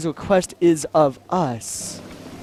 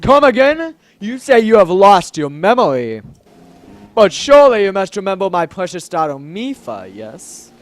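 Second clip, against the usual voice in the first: louder, startled stately king; deep manly voice; 6 dB louder than usual. Acted. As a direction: question him with a touch of royal disbelief. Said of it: "let's give him a deep, manly voice".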